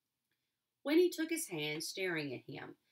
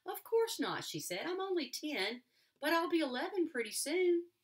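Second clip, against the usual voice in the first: put-on girl's voice; 9 semitones higher, 4 dB louder than usual. A narrator's reading. Girl laughs back at boy.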